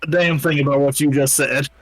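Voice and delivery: cowboy drawl. Acted. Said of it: "Oh, Michael, that was perfect".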